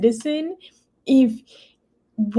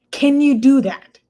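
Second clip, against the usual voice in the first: pointed challenge; 5 semitones higher, 6 dB louder than usual. Real, not acted. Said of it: "repeated challenge".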